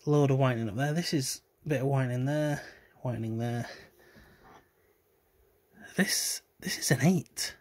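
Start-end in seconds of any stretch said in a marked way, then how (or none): 6.0-7.6 breathy whispered verdict on the card. Real, not acted. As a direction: whisper it, close to the mic.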